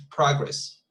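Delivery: "Progress" with the first syllable stressed, PROG-ress; noun stress on Progress. Shown as a demonstration. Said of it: "Progress as a noun".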